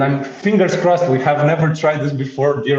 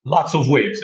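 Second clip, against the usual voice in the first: LOTS stressed, then falling away. Real, not acted. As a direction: put the emphasis on the word Lots. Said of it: "emphasis on lots".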